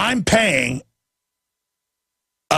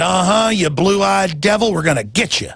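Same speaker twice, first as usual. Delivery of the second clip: retold taunt; 3 semitones higher than usual. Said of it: "they said".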